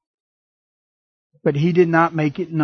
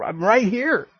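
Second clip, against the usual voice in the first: mock Satan taunt; 6 semitones higher than usual. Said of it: "Satan's like".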